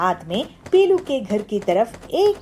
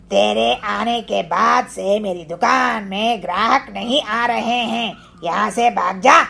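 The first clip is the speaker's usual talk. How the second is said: gruff bully. Acted. Kalu blames Pilu for lost customers, gruff. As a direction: shove her off with words. Kalu orders her away.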